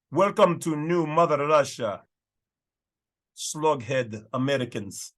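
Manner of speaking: mock Russian border guard accent. Border guard greets passers-by in taken-over Wisconsin, Russian accent. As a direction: put on a hammy Russian accent. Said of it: "it's my best Russian accent".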